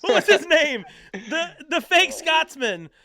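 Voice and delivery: laughing hard through the words; can barely get it out for laughing. Real, not acted. Recalling a fake Scotsman comic, laughing hard.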